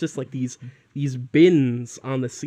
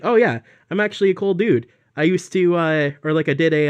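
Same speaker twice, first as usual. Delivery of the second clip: mock boast; 4 semitones higher, 4 dB louder, faster than usual. Mocking teacher's boast voice.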